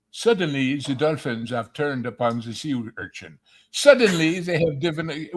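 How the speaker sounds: French documentary narrator voice; dramatic Cousteau-style narration; Cousteau impression. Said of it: "a joke version of Cousteau".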